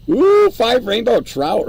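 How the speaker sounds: high, loud and drawn-out slow delight; excited. Real, not acted. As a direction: savor the catch with an ooh. Excited at a game catch.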